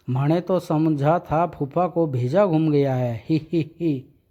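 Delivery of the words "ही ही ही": cheeky giggle. Acted. Tund giggles at uncle.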